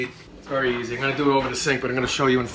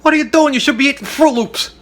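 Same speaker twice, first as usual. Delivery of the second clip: much higher, louder hammed-up parental shout; mock outrage; 12 semitones higher, 11 dB louder than usual. Parent yelling at four-year-old, hammed-up shout. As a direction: shriek like a scandalized parent.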